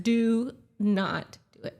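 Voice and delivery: slow, deliberate imitated warning; firm warning. Fiance warning her off the bike, firm warning. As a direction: space out each word like an order.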